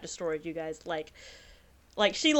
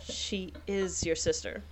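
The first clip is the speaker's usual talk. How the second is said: confused husband; 2 semitones lower, 10 dB quieter, slower than usual. Acted. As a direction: ask slowly, baffled. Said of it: "Solomon was like".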